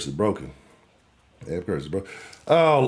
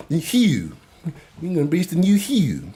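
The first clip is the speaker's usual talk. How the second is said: mocking Baltimore accent; 7 semitones higher than usual. Mocking a Baltimore fan taunting Houston, in a teasing Baltimore accent. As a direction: poke fun at how Baltimore fans talk. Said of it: "Why do y'all talk like that?".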